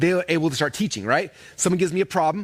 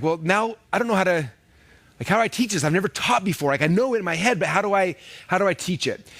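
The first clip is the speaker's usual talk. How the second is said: higher-pitched mild worry; retold nervousness; 4 semitones higher than usual. Nervous new teacher doubting themselves, mildly fretful. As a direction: voice a beginner fretting about how to begin. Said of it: "a lot of people get nervous".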